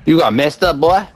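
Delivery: put-on southern accent. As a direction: tease them in a Southern accent. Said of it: "that's my southern accent".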